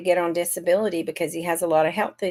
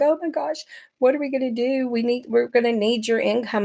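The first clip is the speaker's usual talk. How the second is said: higher, lightly voiced panicking husband; mock panicked husband; 5 semitones higher than usual. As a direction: play the husband's rising alarm, half-acted. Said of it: "when my husband was panicking".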